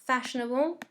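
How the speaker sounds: "Fashionable" with the first syllable FASH stressed. Shown as a demonstration. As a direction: hit FASH in "Fashionable", rest lighter. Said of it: "première syllabe est accentuée".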